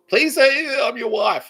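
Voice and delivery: high, slow, drawn-out pleading voice; mock pleading girlfriend. Goddess voiced by the streamer, begging him to call her wife. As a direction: stretch it out high and sweet like a begging fiancee. Voicing Gaia asking to be wife.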